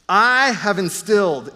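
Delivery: slow, weighty I HAVE INSTILLED; definitive, measured pronouncement with a drawn-out I; decisive declaration. Retold or imitated. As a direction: declare "I have instilled" slowly, landing firmly on I. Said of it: "It's definitive and it's decisive".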